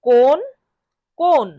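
কোন as "kon" with a long o; model pronunciation. Shown as a demonstration. Teacher drills learners on কোন, careful model pronunciation. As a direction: sound out "কোন" alone, pausing between repeats. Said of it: "বারবার শব্দটি উচ্চারণ করব".

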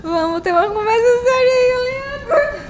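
loud mock-stern scolding, high; mock serious. Streamer scolding a viewer Leandro, mock stern. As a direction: play at a stern telling-off but crack up. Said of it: "Ai, não consigo ficar séria".

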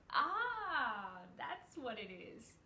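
cat catching on in delight; sudden realization. A narrator's reading. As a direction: let it dawn on him out loud. Cat realises tail signal.

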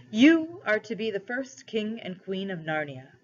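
a measured royal proclamation, lightly acted; lightly voiced lion ruler, solemn. Aslan addresses cabby and wife as first rulers, lightly solemn. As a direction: proclaim it with mild lion-king gravity.

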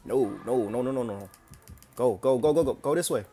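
loud frantic yells while fleeing; panicked shouting. Real, not acted. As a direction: scream at yourself to run. Chased by killer, fleeing.

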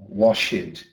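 worked said as two syllables, work it; common learner error. Shown as a demonstration. Teacher demonstrates the Brazilian learner error, slow work it. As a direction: say worked slowly as work it, the typical Brazilian slip. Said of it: "saying things like".

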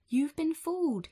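lightly voiced scolding mother. A narrator's reading. Mum scolding Jack for the beans, mildly cross. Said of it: "his mother said".

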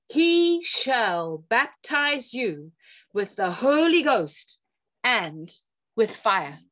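slow, solemn, weighty proclamation; quoting John the Baptist. Retold or imitated. Preacher quoting John the Baptist to the congregation, slow and solemn. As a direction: let each word of the prophecy land slowly.

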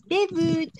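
"debut" high with French u, silent t; French pronunciation. Shown as a demonstration. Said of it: "si las leyésemos en francés".

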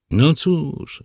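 usual speaking voice

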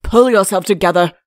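loud, stern royal order; no-nonsense king's command. A narrator's reading. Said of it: "said the king sternly".

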